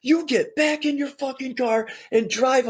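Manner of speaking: high, fierce cussing order; mock furious command. Chris ordering the cop back into his car, mock fury. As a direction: tell him off hard, in mock fury. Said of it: "points at the cop and goes".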